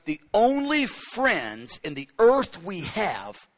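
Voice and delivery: drawn-out, deliberate words; slow, solemn quote. Retold or imitated. Knesset spokesman on Israel's only friends, slow and solemn. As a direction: lay it down slowly. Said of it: "he goes".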